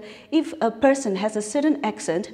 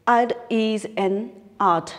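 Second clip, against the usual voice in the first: slowly spelled-out German-accented "Ad" for "It"; slower than usual. Shown as a demonstration. Teacher demonstrating a German shoemaker's accent to students, slow German-accented reading. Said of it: "this is the accent that he uses".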